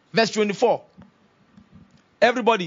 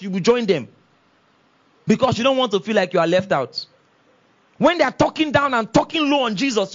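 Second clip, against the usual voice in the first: preacher's rebuke; 5 semitones higher than usual. Real, not acted.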